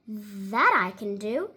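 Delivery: a hint of a contented old gentleman; pleased Mister Putter. Mister Putter finally agrees.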